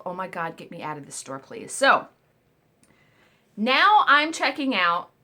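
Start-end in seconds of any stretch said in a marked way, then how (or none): 0.1-1.7 softer and softer, fading to a murmur; a private plea, trailing away; inner plea. Retold or imitated. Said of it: "I thought to myself".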